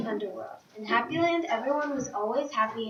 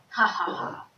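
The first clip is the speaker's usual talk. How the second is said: mild, mock evil laugh; spoken-out villain's "ha ha ha", lightly done; 3 semitones lower than usual. A narrator's reading. Prankster pleased her prank works, understated evil laugh. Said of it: "Tori laughed her evil laugh".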